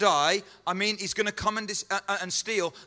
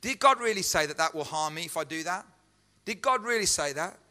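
doubting believer; 3 semitones lower than usual. Acted. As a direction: muse aloud like a believer hunting for excuses. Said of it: "We say".

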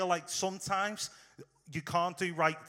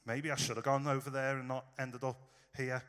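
softer, lower musing; quiet second-guessing; 4 semitones lower, 6 dB quieter than usual. Pretend. Paul in prison, quietly second-guessing his choice. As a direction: mutter it as a half-admitted doubt. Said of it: "I wonder if Paul is sat there going".

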